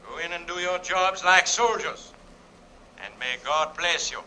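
measured, solemn address to the men; composed commander's send-off; calm final address. Acted. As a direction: address the troops calmly, with clear pauses. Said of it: "calmly addressed his final remarks".

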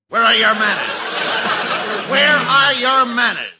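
high, slow, outraged squeal; scandalized. Acted. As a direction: draw it out, shocked and prim. Lieutenant scandalized.

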